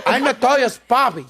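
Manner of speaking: a hint of a proud dad; mock proud papi. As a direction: lightly puff up as the girl's father. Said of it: "I'm like".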